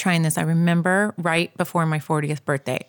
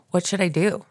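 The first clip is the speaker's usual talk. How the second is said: breathy whispered plea; a daughter whispering to her mom for advice. Retold or imitated. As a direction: whisper it like a lost child asking for help. Pleading to mom, retold.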